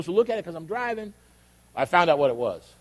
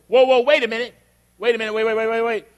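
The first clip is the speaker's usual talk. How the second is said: raised, hurried stop-everything interruption; urgent halting; 4 semitones higher, 4 dB louder than usual. Retold or imitated. The Waze app stopping the driver, urgent halting. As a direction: butt in urgently, repeating on a higher pitch.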